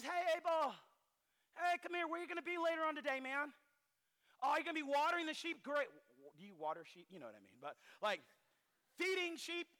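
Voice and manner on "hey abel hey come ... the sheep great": quick, higher, sugary false casualness; fake friendly. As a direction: sweet-talk him while plotting. Cain scheming, fakes friendliness to Abel.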